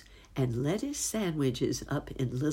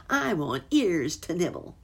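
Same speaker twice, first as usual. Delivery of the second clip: louder, higher greedy fox cry; howling fox; 4 semitones higher, 4 dB louder than usual. Acted. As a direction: demand the ears like a hungry fox. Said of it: "howled Fox".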